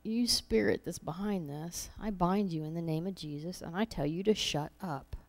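quiet rebuke under the breath; a hushed command to the spirit; under her breath. Retold or imitated. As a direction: bind it softly so no one hears. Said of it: "quietly under my breath".

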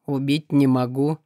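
low, calm, detached voice; indifferent demon. Acted. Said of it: "равнодушно согласился Акара".

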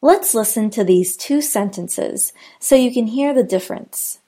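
ordinary talk

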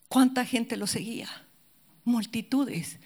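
ordinary talk, nothing marked

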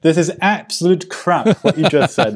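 mock outrage. Laughing protest over monotone claim.

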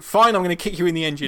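a playful crew member snapping back, fast and loud; mock retort. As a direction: fire it back quickly.

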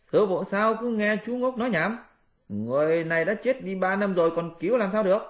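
high, impatient monkey disciple; Monkey King voice. Acted. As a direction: pitch up into a cheeky monkey scolding. Monkey protests to master.

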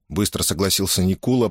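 plain reading voice

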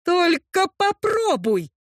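slow threat. Acted. Heroine threatens the orc.

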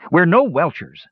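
a touch of sulky protest. A narrator's reading. Captive brother denying he would welch, sulky. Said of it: "said Tannen sulkily".

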